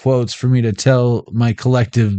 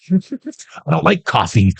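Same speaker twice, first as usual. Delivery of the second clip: imitating meeting attendees; 4 semitones higher, slower than usual. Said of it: "They're like this".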